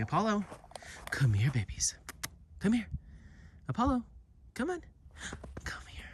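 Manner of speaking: high sing-song call of the dog's name. Real, not acted. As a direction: call Apollo back from across the field. Calling dog back off leash.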